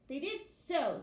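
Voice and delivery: insisting. Acted. Piglet insists back.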